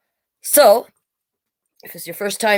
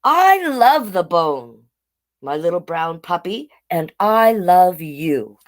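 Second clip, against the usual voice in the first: slow, tender loving mother; tender mama; 2 semitones lower, slower than usual. Acted. Mother dog telling her puppy she loves him, tender and slow. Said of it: "And Mama said".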